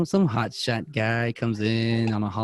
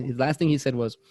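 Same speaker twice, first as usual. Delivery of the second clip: normal talking voice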